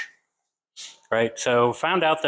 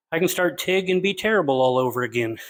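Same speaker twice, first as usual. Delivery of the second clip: winded, breathing hard between words. Real, not acted. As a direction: talk while catching your breath. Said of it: "and I'm out of breath".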